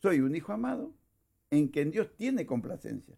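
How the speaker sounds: deliberate, weighted declaration; with intention. Shown as a demonstration. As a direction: affirm it to yourself with full intent. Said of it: "dítelo con kavaná".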